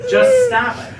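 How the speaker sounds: high, loud laughing yell; exasperated shout. Real, not acted. Exasperated friend.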